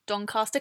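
Doncaster as DON-cah-stuh; long-A Doncaster. Shown as a demonstration. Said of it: "But I say Doncaster".

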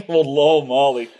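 soothing mock Scottish brogue; Scottish accent. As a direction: lull her in a Scottish accent. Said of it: "slightly racist Scottish accent".

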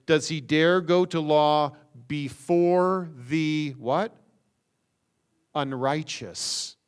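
slow reading, pause, then Unrighteous dropped in; dramatic pause before Unrighteous. Shown as a demonstration. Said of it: "look at this one little phrase".

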